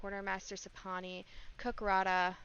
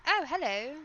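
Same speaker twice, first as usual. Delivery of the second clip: a louder, higher delighted "Oh, hello", with the stress on "Oh" and a rise at the end; pleased surprise; 5 semitones higher, 10 dB louder than usual. Real, not acted. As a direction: perk up at a new find. Spots something new in game.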